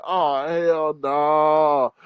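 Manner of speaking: very slow, stretched mock disbelief; drawn-out disbelief. Host repeating the reaction to Austin news, slow disbelief. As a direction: drag every word out, appalled.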